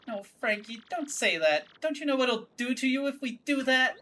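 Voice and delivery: put-on a sassy girlfriend telling a creep off; Francesca voice. Daughter confronting the stranger, high and huffy.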